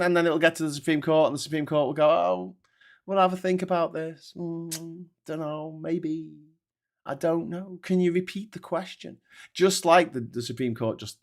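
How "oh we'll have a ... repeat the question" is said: lightly voiced hesitant judge, softer; a mockingly noncommittal, hesitant mumble; mock dithering. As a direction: hem and haw, stalling for time. Mock dithering Supreme Court, hesitant drawn-out hums.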